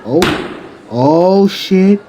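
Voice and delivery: high, loud, stretched "oh"; shocked onlooker. Acted. A student sees Bakugo thrown down, shocked. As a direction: react in startled disbelief.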